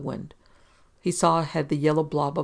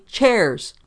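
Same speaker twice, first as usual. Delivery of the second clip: loud, high, falling bark; angry shout; 6 semitones higher, 9 dB louder than usual. A narrator's reading. Policeman throwing the word back at Engel, shouting.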